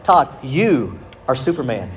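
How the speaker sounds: put-on convince a gullible kid with grave certainty; solemn persuasion. Older cousins talk young cousin into believing, mock-solemn.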